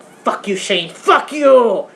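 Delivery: mock-furious, rising at the end; pissed off. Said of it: "I was pissed".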